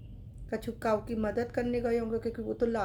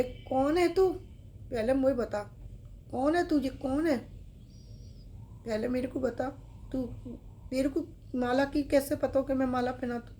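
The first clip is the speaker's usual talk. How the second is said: startled question; 3 semitones higher than usual. Acted. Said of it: "बाबा एकदम से चौंक गए".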